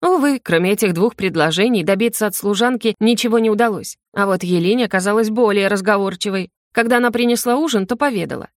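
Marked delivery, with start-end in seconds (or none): none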